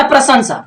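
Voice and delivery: प्रशंसा opening on a joined "pra"; correct pronunciation. Shown as a demonstration. Teacher introduces the word, correct pronunciation. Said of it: "सही में क्या होगा".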